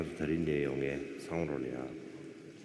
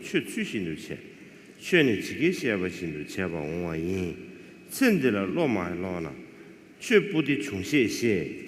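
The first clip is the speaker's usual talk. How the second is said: scripture recitation; 3 semitones higher, 3 dB louder than usual. Acted. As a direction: recite the sacred text in rising and falling phrases. Recites the text in Tibetan.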